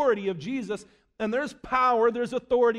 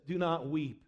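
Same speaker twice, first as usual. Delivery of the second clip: low, soft voice of a comforting angel; hushed reassurance; 8 semitones lower, 8 dB quieter than usual. Acted. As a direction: lower and soften it, quietly solemn. Angel consoles weeping John.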